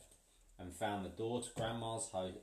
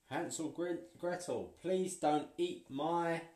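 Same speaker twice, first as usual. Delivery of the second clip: pleading witch; 7 semitones higher, 3 dB louder than usual. A narrator's reading. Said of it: "Willow pleads with children".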